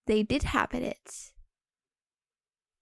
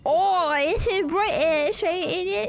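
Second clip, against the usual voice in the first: mock British accent; 4 semitones higher, 4 dB louder, slower than usual. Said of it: "Shelly British accent, ain't it, bruv".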